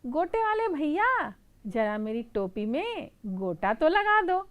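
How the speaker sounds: high, loud sweet request; pleading mouse. Acted. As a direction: call out to the lace seller. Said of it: "चूहा बोलता है". (ऊँची, मीठी चूहे की गुहार)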